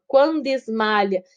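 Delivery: "Quando esmalha" with -do and es- run together; linked syllables. Shown as a demonstration. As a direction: link the end of "Quando" into "esmalha". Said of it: "Esse dois a gente junta".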